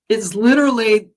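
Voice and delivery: overcome, pushing through a lump in the throat; real emotion welling up, pitch climbing; getting emotional. Real, not acted. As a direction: voice rising high with emotion, nearly breaking. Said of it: "I get a little emotional".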